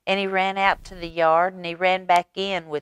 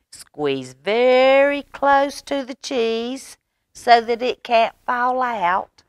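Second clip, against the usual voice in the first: playful squeeze order; 8 semitones higher, 4 dB louder, slower than usual. Acted. Mama playful instruction.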